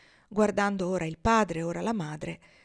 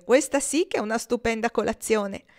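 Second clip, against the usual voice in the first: gleeful; 3 semitones higher, 5 dB louder than usual. Acted. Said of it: "tutto gongolante di gioia".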